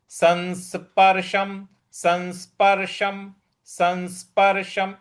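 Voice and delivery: संस्पर्शम with the nasal as न; pronunciation demo. Shown as a demonstration. Teacher drills the word, careful demo. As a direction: say संस्पर्शम as सन्स्पर्शम. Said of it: "इस प्रकार से बोलेंगे".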